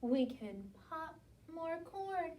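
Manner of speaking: high, loud squeaky mouse voice; high mouse squeak. A narrator's reading. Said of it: "Mouse squeaks".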